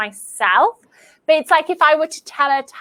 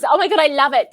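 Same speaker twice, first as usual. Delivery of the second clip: ordinary talk, nothing marked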